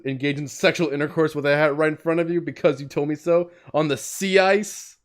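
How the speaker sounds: mild acted outrage, rising to an incredulous question; indignant. Cop challenging girl on the sea ice, mounting indignation. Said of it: "Maybe add more indignation".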